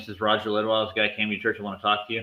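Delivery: ordinary talk, nothing marked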